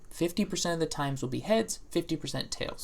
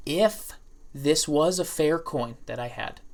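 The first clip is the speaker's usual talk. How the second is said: slow and meaningful. Shown as a demonstration. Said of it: "slow and meaningful when I say this".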